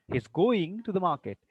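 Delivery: "going" lifted and stretched; stress on GOING. Shown as a demonstration. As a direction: lean on "going". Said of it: "Then what he is doing?".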